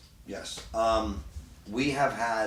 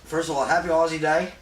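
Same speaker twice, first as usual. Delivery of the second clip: festive greeting; 8 semitones higher, 10 dB louder than usual. Real, not acted. Host opens show calling out greeting.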